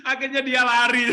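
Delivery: laughing through the words; can't stop laughing as he tells it. Real, not acted. Teacher laughing while telling the seminar audience.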